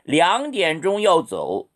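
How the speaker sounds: very slow, careful tones; slow model sentence. Shown as a demonstration. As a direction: drill it slowly. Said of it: "이렇게 읽으세요".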